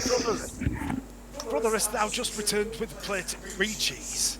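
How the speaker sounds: in-character hail. Acted. Game master hails brother in character.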